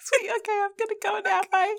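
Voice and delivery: high, small mouse voice; tiny mouse voice. Pretend. The mouse character slipping out of the conversation, high and tiny. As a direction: chirp it like a mouse excusing itself.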